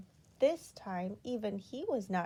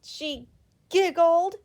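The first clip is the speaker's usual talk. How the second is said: higher, louder, giggling on the word; giggly; 8 semitones higher, 13 dB louder, slower than usual. A narrator's reading. Narrator catching Miss Giggles's giggle, giggling. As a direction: start to giggle as you say it.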